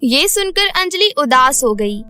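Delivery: usual speaking voice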